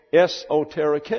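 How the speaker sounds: "esoteric" sounded out es-oh-teh-ree-KAY; long final A. Shown as a demonstration. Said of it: "pronounced like a long English A".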